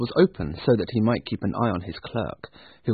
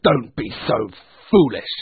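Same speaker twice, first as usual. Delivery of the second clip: emphatic, louder rebuke; scornful Scrooge; 6 dB louder than usual. Acted. Scrooge refusing his nephew, scornful. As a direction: snub him with stress on foolish. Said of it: "said Scrooge".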